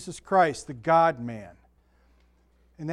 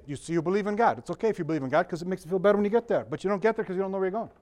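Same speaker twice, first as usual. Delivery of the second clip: quick-fire mock Jewish comedian patter; Jackie Mason; faster than usual. Preacher retelling an atheistic rabbi's joke, fast imitated comic patter. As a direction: rattle it off like a stand-up comic. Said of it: "he could talk like this".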